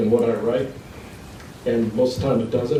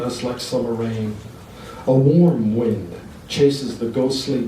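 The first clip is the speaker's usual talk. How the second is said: poem reading. Acted. Reads poem to audience.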